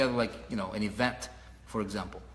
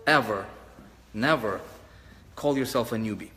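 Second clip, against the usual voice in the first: preaching emphasis; 2 semitones lower than usual. Real, not acted. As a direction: preach it one word at a time. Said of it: "I'm gonna start preaching".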